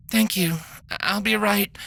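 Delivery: a worn-out doctor sighing through bad news; weary mare doctor. Doctor cut off by cough.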